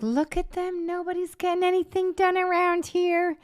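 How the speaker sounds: high, loud exasperated rant. Retold or imitated. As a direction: rant like a fed-up boss. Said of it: "It was making Vinny crazy".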